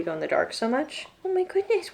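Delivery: talking through a yawn; stretched yawn mid-sentence. Real, not acted. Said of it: "what a big yawn".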